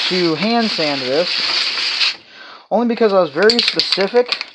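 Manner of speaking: speaking through a respirator; muffled by respirator. Real, not acted. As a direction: voice dulled behind a mask. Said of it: "I am wearing a respirator".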